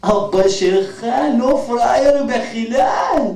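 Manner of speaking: slow emphatic shout of approval; admiring exclamation. Acted. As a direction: proclaim it with admiration. Arab friend exclaims admiringly.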